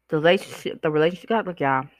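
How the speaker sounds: talking while chewing gum. Real, not acted. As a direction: slur a little around the gum. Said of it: "I'm up here chewing gum, so I'm slurring".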